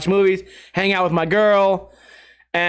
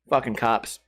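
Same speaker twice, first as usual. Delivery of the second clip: low, soft grumble under breath; muttered; 10 semitones lower, 6 dB quieter than usual. Real, not acted. Muttered aside after cop bit.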